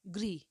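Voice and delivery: grih, with an ri sound; crisp demo of गृह; said carefully. Shown as a demonstration. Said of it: "लिखते समय मैं लिख रही हूँ".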